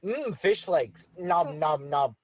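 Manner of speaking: lightly voiced goldfish, low glub sounds; gurgling fish man croak. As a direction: glub like a dim little fish. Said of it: "Dev's just sitting there going like".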